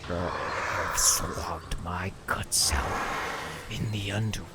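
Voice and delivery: slow, hushed villain taunt; menacing whisper. Acted. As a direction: breathe the threat out slowly. Villain taunts the fallen Spartan.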